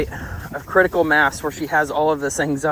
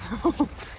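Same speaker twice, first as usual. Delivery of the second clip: soft, high little chuckle; soft laugh; 6 semitones higher, 9 dB quieter than usual. Real, not acted. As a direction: chuckle softly at your dog. Amused by the dog.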